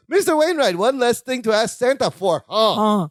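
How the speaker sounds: high eager call. Retold or imitated. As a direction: chirp it out eagerly. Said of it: "He goes".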